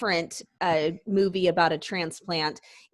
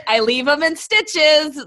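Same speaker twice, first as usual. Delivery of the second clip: retold corny joke; 5 semitones higher, 6 dB louder, slower than usual. Mimics the movie's corny hospital joke.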